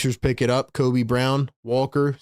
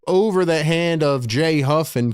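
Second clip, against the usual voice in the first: play-by-play swelling on the drive, then settling; live play-by-play. Real, not acted. Streamer calling Cameron Payne's drive live, play-by-play. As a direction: stretch the call as the drive rises.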